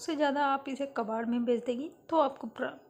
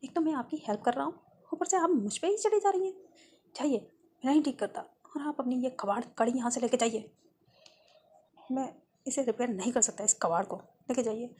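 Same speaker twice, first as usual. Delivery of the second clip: angry. Acted. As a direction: fire back at the rude customer. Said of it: "mechanic भी गुस्से में आ जाता है".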